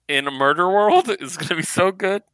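real giddy excitement; excited. Real, not acted. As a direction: bubble over with excitement. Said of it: "I'm so excited".

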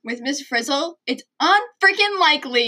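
hammed-up quote climbing high and loud; imitating cartoon kids. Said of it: "And then she goes".

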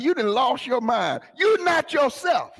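imitated exclamation climbing high; retold exclamation. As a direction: call someone out, jumping up in pitch. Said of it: "You know how somebody said".

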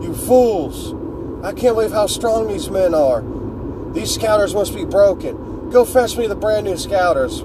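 a hint of an arrogant tyrant scolding his men; lightly mocking villain voice, barely shifted; Frieza. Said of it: "Frieza tells the Ginyu Force".

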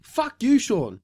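high-pitched mock accusation, half laughing; mock outrage. Friend fake-accuses Sean of copying, mock outrage. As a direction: play the betrayed friend, hammed-up.

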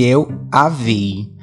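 "a vi" set apart slowly and carefully; slow, deliberate correct grammar on "a vi"; ênfase em "a vi". Shown as a demonstration. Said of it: "Aprendi a falar certo assim com ela". ("a vi" bem pausado)

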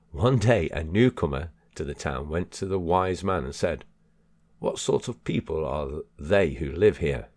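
measured, emphatic book reading; deliberate audiobook delivery; reading aloud. Acted. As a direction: read it out clearly to listeners. Reads a parable aloud.

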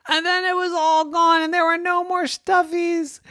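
lifted, sing-song storyteller voice; high dramatic narration. A narrator's reading. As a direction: narrator making the loss sound grand. Fin dramatique du conte.

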